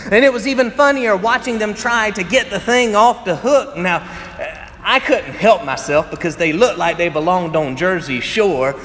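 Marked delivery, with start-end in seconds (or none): 0.1-3.8 laughing. Real, not acted. Laughing while telling funny story.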